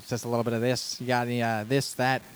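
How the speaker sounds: light put-on Australian patter; easygoing Aussie accent. Shown as a demonstration. Host demonstrates his favorite accent, lightly Australian. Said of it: "My favorite accent's the Australian one".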